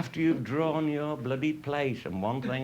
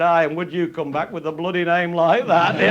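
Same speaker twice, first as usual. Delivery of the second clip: put-on old retainer's retort; 5 semitones higher, 8 dB louder than usual. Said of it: "old family attendant said".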